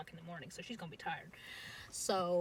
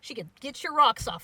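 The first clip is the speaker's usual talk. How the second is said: mock angry yell; 5 semitones higher, 12 dB louder than usual. Drunk brother raging at the bar.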